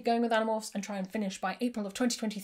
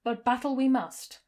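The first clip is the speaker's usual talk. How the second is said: calm villain. Acted. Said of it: "none of the Visser's usual cool arrogance".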